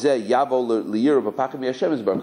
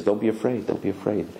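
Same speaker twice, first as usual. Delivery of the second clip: calming reassurance. Retold or imitated. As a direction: soothe a frightened student. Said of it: "the way he said it calmed me".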